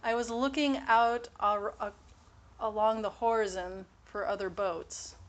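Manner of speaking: horizon as "Whoreson" in a French-accented imitation; French dad's accent. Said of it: "Can you put that in a sentence?".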